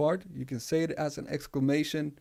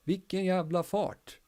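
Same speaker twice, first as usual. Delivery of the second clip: "Vilken jävla fart" higher and excited; amazed exclamation; 7 semitones higher than usual. Shown as a demonstration. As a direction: marvel at someone's speed. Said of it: "Swedish word of the week".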